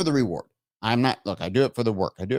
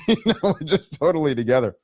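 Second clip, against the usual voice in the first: amused, through a laugh; laughing sarcasm. Real, not acted. Host mocking own loosey-goosey party, laughing. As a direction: let laughter leak into the sarcasm. Sarcasm about chaotic show.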